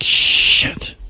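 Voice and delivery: breathy whispered shit; whispered curse. Retold or imitated. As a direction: mutter it under your breath, caught out. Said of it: "I was like".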